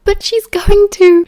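high, loud objection; agitated protest. A narrator's reading. Sirius argues with Remus about Marlene, agitated.

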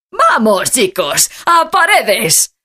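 alegre, sube mucho el tono al final; anímalos con alegría a subir al coche. Acted. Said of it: "dice el abuelo con alegría". (alegría)

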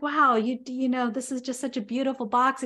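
husband admiring the wrapped box. Retold or imitated. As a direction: admire the box with wide-eyed wonder. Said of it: "And he's like".

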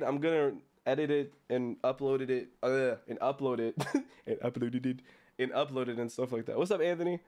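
talking around a toothbrush; words through a mouthful of toothpaste; while brushing teeth. Real, not acted. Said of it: "I'm brushing my teeth right now".

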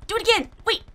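high loud yelp of protest; sudden high shout at the game. Real, not acted. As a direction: yell as you get killed. Dying in game.

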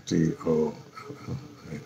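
very soft letter-by-letter spelling, fading away; barely audible self-talk while typing; spelling to oneself. Real, not acted.

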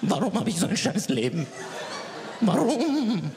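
high, wailing sob; mock crying whine. Crying child wails in his room, rising to a high wail. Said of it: "Und dann entschuldigst du dich".

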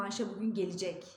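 Ayşe bugün gelecek with a long Ayşe; spoken word order. Shown as a demonstration. Teacher models the spoken phrasing, Ayşe bugün gelicek. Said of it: "diye okuyoruz".

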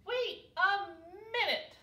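high, loud protest; shouting. A narrator's reading. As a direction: shout to call a halt. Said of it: "shouted Baby Owl".

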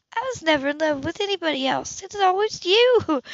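confessing lifelong love to Ethan, swelling; heartfelt confession. A narrator's reading. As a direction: pour it all out at last.

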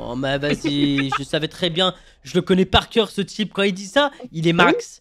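loud, fired-up rant; excited gamer. Real, not acted. Joueur s'emballe, sûr de lui. (joueur surexcité)

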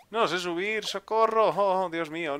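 high, wailing play-panic; hammed-up cry for help; mock panic. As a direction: plead helplessly, pitched high. Mock panic, can't climb in game.

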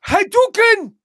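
high shouted special-move call; sudden, high-pitched attack cry; game battle cry. Acted. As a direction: yell it like a fighting-game move. Imitates video game battle cry.

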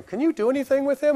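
high, desperate plea for help; mock pleading bystander. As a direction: beg a stranger to fix it. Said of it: "people beside me are going".

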